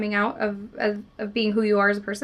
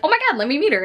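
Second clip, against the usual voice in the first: eager gush; 7 semitones higher, 4 dB louder, much faster than usual. Retold or imitated. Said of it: "is just like".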